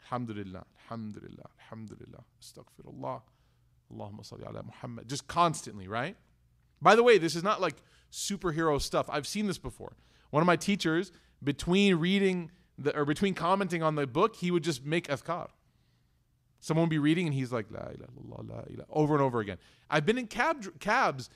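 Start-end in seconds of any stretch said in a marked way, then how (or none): 0.0-5.1 low, very soft repeated devotion; hushed litany to oneself; murmured dhikr. Acted. Demonstrates constant remembrance of Allah. 17.7-18.8 imitating a low, hushed chant; soft devotional undertone; murmured dhikr. Imitates teacher reciting between readings.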